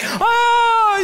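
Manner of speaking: high shouted son's oh; son's startled oh. Retold or imitated. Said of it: "my son's like".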